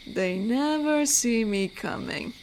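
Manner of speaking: slow, drawn-out predator's boast. Acted. Werewolf boasts to stranger about hunting killers, slow menace. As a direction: savour it slowly, like a hunter.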